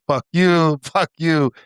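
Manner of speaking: playful imitation of a man quitting his job; movie quitting scene. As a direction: act out a gleeful kiss-off, half laughing. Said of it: "where the dude quits his".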